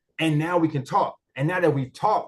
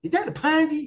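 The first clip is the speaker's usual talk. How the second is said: higher, slowed suspicious asking; skeptical mock question; 7 semitones higher than usual. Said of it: "go to Bitcoin Queen and say".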